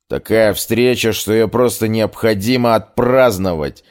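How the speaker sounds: put-on tongue tripping over words, drunk; slurred drunk. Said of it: "заплетающимся языком проговорил".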